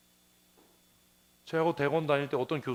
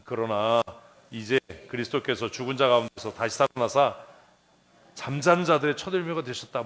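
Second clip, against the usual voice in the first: reading scripture; 4 semitones lower than usual. Shown as a demonstration. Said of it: "그대로 읽으려고 그러면".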